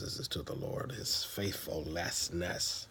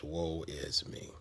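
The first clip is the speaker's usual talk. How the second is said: mock blues lament; 3 semitones lower, slower than usual. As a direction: moan it like singing the blues. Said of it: "singing the blues".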